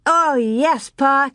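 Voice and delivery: high bright eager yes. Acted. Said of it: "Carrie said eagerly".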